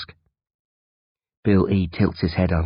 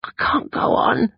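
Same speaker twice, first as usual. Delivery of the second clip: weak groan. Acted. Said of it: "he groans".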